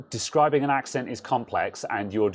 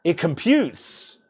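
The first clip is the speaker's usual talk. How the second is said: put-on Del Boy; 6 semitones higher, much slower than usual. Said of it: "It's a very soft Cockney accent".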